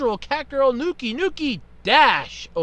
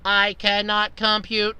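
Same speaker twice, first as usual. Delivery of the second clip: slow, flat mock robot monotone; slower than usual. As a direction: drone it like a toy robot. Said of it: "she talks in the robot voice".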